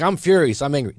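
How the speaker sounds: a hammed-up angry yell, pitch jumping up; mock furious outburst. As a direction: act out a hurt guy pretending to be furious. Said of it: "You're like".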